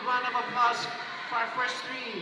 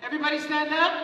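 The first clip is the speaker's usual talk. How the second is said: louder, punchier repeat; louder hype call; 2 semitones higher, 5 dB louder, faster than usual. Real, not acted. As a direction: push the crowd harder. MC hyping the crowd.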